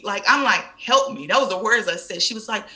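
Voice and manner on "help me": higher, louder retold plea; pleading. Patient in pain to late doctor, pleading. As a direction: reenact begging the doctor for relief.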